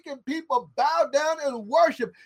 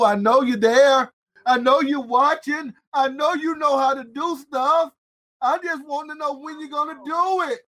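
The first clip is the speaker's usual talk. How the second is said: pleading prayer; 4 semitones higher, 3 dB louder than usual. Acted. Voicing David's prayer to God.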